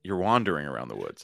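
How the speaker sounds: "wandering" with an open "ah" vowel; correcting pronunciation. Shown as a demonstration. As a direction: say "WAHN-dering around the woods". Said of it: "Can you say the word".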